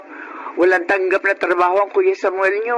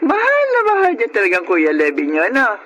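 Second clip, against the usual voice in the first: tearful; 3 semitones higher than usual. Acted. Mother moved to tears.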